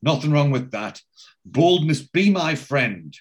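mildly pompous retold pronouncement; high and mighty. Barry answering Bomber about the idea, high and mighty. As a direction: imitate a self-important man holding forth. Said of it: "gets a bit high and mighty".

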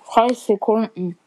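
talking with a mouthful; words through a chewed bite; chewing while talking. Real, not acted. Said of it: "Rede nicht mit vollem Mund". (kauend sprechen)

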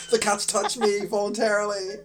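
high, delighted squeal; excited squeal. Retold or imitated. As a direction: squeal with joy at the cats. Excited quote about cats.

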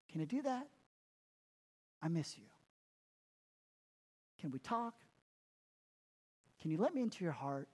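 a tender, lightly voiced Jesus speaking to Martha. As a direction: plead gently with a busy friend. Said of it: "a phrase of endearment".

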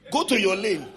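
mock yell. Yelling at bus driver.

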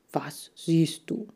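slow secretive whisper. Acted. Lee asks Chan at the mirrors, whispering. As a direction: lean in and whisper the question.

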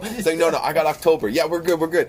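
high, squeaky arguing editors; bickering editors. Retold or imitated. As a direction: squabble over the months. Voicing bickering magazine editors.

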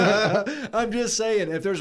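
loud, high, drawn out through laughter; laughing. Real, not acted. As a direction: protest while laughing. Laughing while defending himself.

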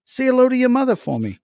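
high, loud friendly chatter to a goat; Mark Wahlberg impression. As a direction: ask the goat cheerfully, quickly. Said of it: "Mark Wahlberg talking to animals".

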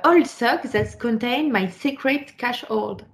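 reading English with a heavy French accent. Real, not acted. Reading the English original aloud in a French accent. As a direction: read the English line slowly in a French accent. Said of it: "désolée pour mon superbe accent".

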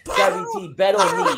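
put-on boastful title challenge in a Spanish accent; Thunder Rosa, accented promo. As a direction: promise the takeover, Spanish-accented. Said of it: "allowed to do this accent".

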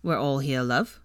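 low, casually innocent reply. A narrator's reading. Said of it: "looked at her innocently".

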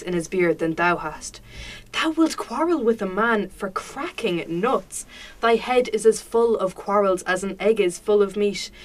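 giving out. Acted. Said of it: "where I am giving out to my friend".

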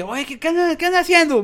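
pregunta alegre, aguda y fuerte; saludo animado. Retold or imitated. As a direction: amigos contentos saludando de madrugada. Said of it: "me preguntan". (amigos animados preguntan, voz aguda)

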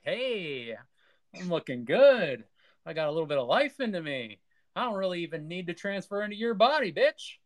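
high, fast, gloating villain; gloating evil emperor. Retold or imitated. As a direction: crow over your new power. Emperor gloats in retold scene.

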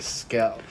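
"skull" overcorrected to "skell"; failed attempt. Shown as a demonstration. Husband failing his wife's correction, "skull" as "skell". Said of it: "I can't even do it right".

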